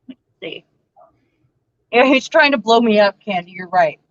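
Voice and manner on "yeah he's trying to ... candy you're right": talking with a mouthful of fries; mouth full. Real, not acted. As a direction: say it around a mouthful of food. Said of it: "talk with my mouth full".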